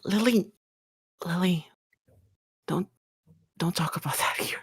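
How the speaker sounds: urgent whisper to hush a friend; very soft, cautioning half-whisper; hushed warning. Acted. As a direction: shush her under your breath. Hushing a friend in company.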